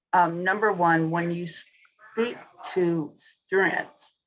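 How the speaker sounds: talking around gauze in the mouth; words muffled by a mouthful of gauze. Real, not acted. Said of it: "I have gauze in my mouth".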